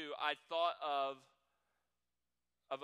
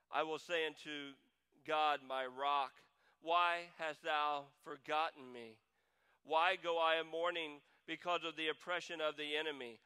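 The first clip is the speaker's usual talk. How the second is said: reads the verse out to the congregation; steady, solemn Bible reading; scripture reading; 4 dB louder than usual. Acted. Pastor reading Psalm 42 aloud to the church, solemn reading.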